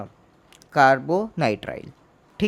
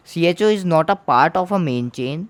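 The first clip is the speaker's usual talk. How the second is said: very slow and a bit louder, each word weighed; slow emphatic rule; 3 semitones higher, 5 dB louder, much slower than usual. Shown as a demonstration. Teacher stressing to students that CHO is not main chain. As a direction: hammer the rule home slowly.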